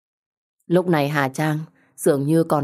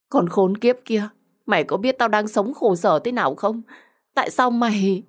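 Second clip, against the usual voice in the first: high-pitched, distraught accusation; acted bitter outburst; anguished anger; 5 semitones higher than usual. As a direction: curse and demand a reason. Betrayed woman curses friend.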